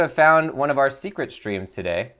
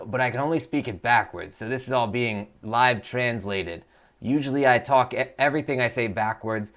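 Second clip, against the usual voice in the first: character voice. Acted. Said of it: "that's what we call a Voice of Nick voice".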